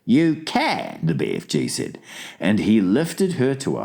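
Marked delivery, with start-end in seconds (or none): 0.0-1.0 high, drawn-out giant's reply; lightly voiced storybook giant; giant character. Giant agrees to the girl's wish, lightly voiced giant.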